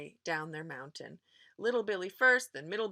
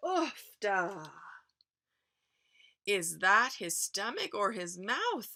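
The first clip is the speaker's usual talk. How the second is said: winded troll. Acted. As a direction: gasp as the horns land. Troll hit by horns.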